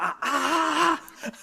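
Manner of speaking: high drawn-out mock wail; imitated manager's wail. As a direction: mimic a manager losing it, wordless high cry. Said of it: "I think he just goes like".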